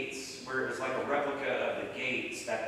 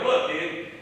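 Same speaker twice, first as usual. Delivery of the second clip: louder, mildly irritated retelling; ticked off; 2 semitones higher, 6 dB louder than usual. Retold or imitated. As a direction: act out brushing off a caller. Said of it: "that's exactly how I said it".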